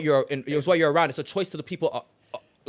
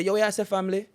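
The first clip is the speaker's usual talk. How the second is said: Jamaican phrasing; 5 semitones higher, faster than usual. Shown as a demonstration. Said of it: "Man say".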